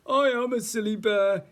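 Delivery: high, loud, jolly bear; giggling bear. A narrator's reading. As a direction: admit it with mock giggly glee. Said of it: "he giggled".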